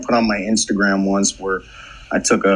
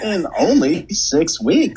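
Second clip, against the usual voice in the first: high, slow newsreel voice; old-timey voice; 6 semitones higher, slower than usual. Acted. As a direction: stretch it like a vintage ad. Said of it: "Old-timey voice".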